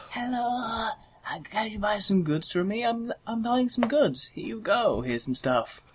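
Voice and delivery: mimicking a lizard merchant's voice; lightly voiced lizard trader; lizard accent. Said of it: "with this lizard accent".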